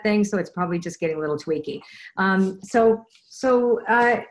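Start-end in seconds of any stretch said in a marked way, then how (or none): 2.2-4.2 stumbly. Real, not acted. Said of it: "I'm sorry if I sound a little stumbly".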